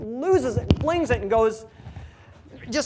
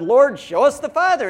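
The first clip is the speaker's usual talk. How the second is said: demanding Philip; 5 semitones higher, 9 dB louder than usual. Retold or imitated. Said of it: "Philip said".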